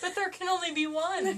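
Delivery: loud dramatic tagline; lightly hammed movie line; Highlander movie quote. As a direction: boom it like a trailer.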